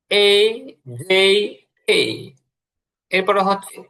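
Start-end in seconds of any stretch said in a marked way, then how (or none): 0.1-2.0 "এ", "জে", "কে" each gliding from e to short i; corrected A, J, K. Shown as a demonstration. Teacher recaps corrected letters, "এ", "জে", "কে" with i glides. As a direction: separate letters "এ", "জে", "কে", each with an i tail. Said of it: "এটার উচ্চারণ হবে কে".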